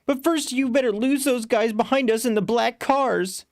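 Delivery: urgent order from the back seat; calling to driver. Acted. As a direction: push the cabbie to lose them. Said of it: "I call to the cab driver".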